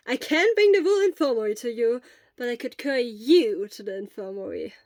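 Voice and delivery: quick, eager offer of help; lightly voiced worried friend. Hisashi offers to fetch medicine for sick Shura, eager and caring.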